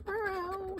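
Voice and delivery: high, soft mimicked meow; cat meow. Copying the crying cat, high meow. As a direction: mew like a lonely cat.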